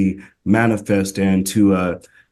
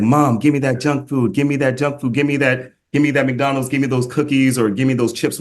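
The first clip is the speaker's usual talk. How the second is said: lightly voiced whiny child, pitched up; whiny kid; 4 semitones higher than usual. A kid nagging mom for McDonald's, mildly whiny and pitched up.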